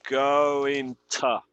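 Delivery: going to said as gonna-ish with reduced to. Shown as a demonstration. Teacher modelling a reduced going to for students. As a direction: run going to together, to as a weak schwa. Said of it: "Es más como".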